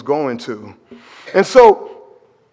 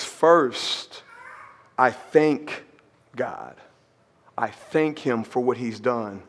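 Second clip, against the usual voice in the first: much softer, low reverent reading; hushed reverent quote; 6 semitones lower, 10 dB quieter, slower than usual. Acted. Preacher reading Paul's thanks to the congregation, very quietly. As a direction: draw them in, almost a whisper. Quoting Paul, very soft.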